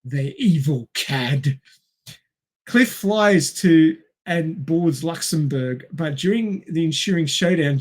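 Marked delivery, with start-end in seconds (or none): 0.0-1.6 slow, hammed-up villain scorn; slow mock disdain; mock melodrama. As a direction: sneer it like a melodrama hiss.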